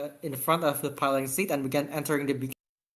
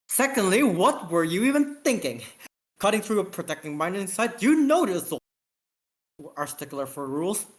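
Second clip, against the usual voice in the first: higher, raised exasperated lecture; exasperated scolding; 3 semitones higher than usual. Acted. Lieutenant lectures the captain about the mining site, exasperated. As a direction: press the point, voice climbing.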